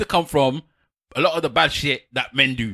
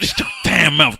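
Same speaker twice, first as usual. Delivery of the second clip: a bit louder, playfully bossy; louder mock order; 3 dB louder, slower than usual. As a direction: push it harder, still joking. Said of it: "repeated with different force".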